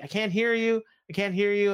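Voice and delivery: high, loud mock yelling into a phone; hammed-up straining over a bad line; mock phone shout. Adam Cole on a breaking call, mock shouting.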